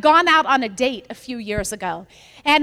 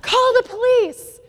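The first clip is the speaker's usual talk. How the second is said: retold yell; 9 semitones higher than usual. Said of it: "somebody yelled out".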